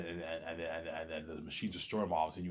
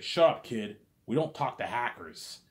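put-on loud, curt cop telling kid off; gruff cop; 3 semitones higher, 5 dB louder than usual. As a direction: shut the kid up.

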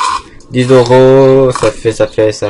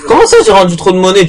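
indignant surprise; 6 semitones higher, faster than usual. Acted. Arguing over change with passenger.

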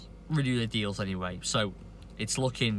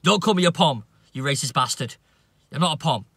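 much higher and louder, a hammed-up furious yell; mock angry shout; 4 semitones higher, 7 dB louder than usual. English guy yelling back at a racist name-caller, mock furious shout. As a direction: blow up at the name-caller, half-mocking. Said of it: "An English guy saying".

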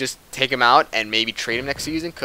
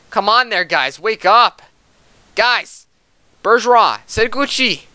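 urging team on; 7 semitones higher, 6 dB louder than usual. Real, not acted. Urging team after goal against.

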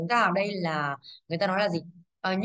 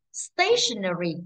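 slow stationery, strong STA, falling ending; stress on first syllable; 2 semitones lower, much slower than usual. Shown as a demonstration. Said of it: "Âm một chứ".

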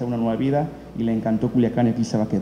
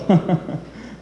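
higher-pitched chuckle; real chuckle; 4 semitones higher than usual. Real, not acted. Presenter having corrected the title to audience, chuckle. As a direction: chuckle after correcting yourself.

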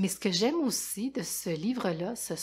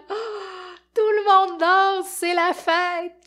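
excited; 11 semitones higher, 9 dB louder, much slower than usual. A narrator's reading. Joyful climax of the party.

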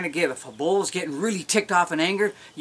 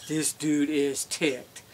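mock impressed; much slower than usual. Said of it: "When you hear a grunt, it's like".

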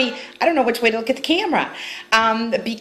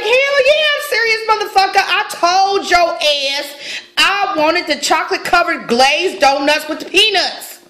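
retold yelling; 3 semitones higher than usual. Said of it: "So I was like".

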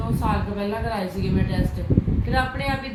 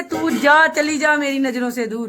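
filmy dramatic husband; 4 semitones higher than usual. Retold or imitated. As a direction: quote him like a film hero. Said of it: "ਕਹਿੰਦੇ".

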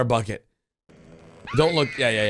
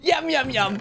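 higher cartoon echo with a laugh in it; mock cartoon voice; 9 semitones higher than usual. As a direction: giggle through a cartoon-kid imitation. Echoes cartoon yum yum.

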